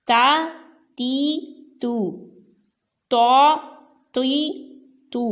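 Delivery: تا تی تو short and light, then طو heavy and full; teacher drilling تا تی تو; vowel drill. Shown as a demonstration. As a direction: sound each syllable cleanly without stretching. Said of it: "تو کو پر پڑا".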